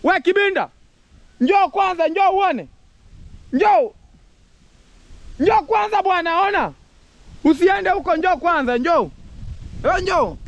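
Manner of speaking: calling out. Real, not acted. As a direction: shout across the yard to your brother. Calling brother over from afar.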